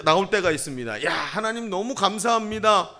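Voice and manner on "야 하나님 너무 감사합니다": higher-pitched, acted amazement; exclaiming in wonder. Pastor acts a believer thanking God, exclaiming in wonder. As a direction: exclaim thanks with a touch of awe. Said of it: "감탄사가 붙을 때".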